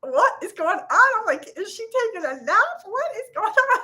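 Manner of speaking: high, baffled retold panic; high-pitched mock alarm; bewildered. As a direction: sound utterly confused by the sleeping hen. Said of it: "And I was like".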